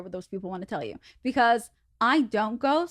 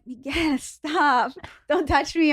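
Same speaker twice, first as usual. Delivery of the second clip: mock firm refusal; 5 semitones higher, 4 dB louder, slower than usual. Retells telling him off.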